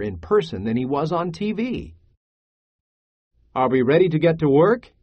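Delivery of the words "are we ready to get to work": quick, eager call to work; rallying question. Acted. Pedro to the waiting children, rallying question. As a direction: rouse them with a brisk question.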